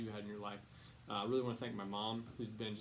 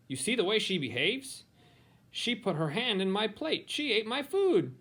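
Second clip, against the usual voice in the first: higher, indignant gossiping voice; complaining relative; 10 semitones higher, 11 dB louder than usual. Acted. Relative complaining that Helen behaves like a monster, indignant higher voice. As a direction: tattle on the child with disgust.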